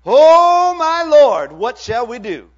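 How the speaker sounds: servant's terrified outcry; panicked servant. A narrator's reading. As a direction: cry out in terror at the army. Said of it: "the servant asked".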